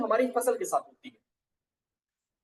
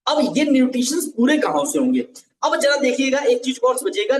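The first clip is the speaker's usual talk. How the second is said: raised teacher voice; 2 semitones higher, 7 dB louder than usual. Real, not acted. Teacher grabs attention, raising voice.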